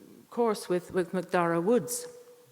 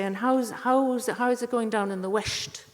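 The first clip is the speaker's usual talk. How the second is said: ape the friends' condescending question; mocking imitation; 4 semitones higher, 5 dB louder than usual.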